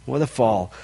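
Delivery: quiet echo. Shown as a demonstration. Preacher repeats it softly to the congregation, quiet. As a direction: let "What a fall" sink to a sad hush.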